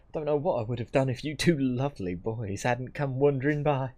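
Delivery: lightly voiced chatty country auntie; Auntie Martha. Auntie thanking two lads who rescued her, playful and grateful.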